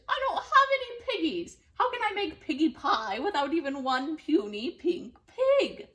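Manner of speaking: high, fast, loud witch rant; panicked witch. Acted. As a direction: spill it out in a frantic panic. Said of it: "screeched Gritch".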